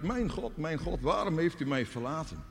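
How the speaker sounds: high-pitched anguished cry, not full volume. Acted. Jesus on the cross cries to God, anguished. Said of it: "dan schreeuwt Jezus het uit".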